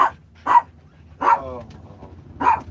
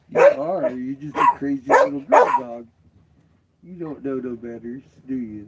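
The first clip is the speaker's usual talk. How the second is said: pet voice; 5 dB louder than usual. Acted. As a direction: squeal fondly at the dog. Teasing dog in pet voice.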